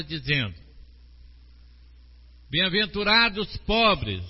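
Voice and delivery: solemn, measured reading of the Beatitudes; scripture reading. Acted. Preacher reads Jesus's blessings to the congregation, solemnly. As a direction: proclaim each blessing with weight.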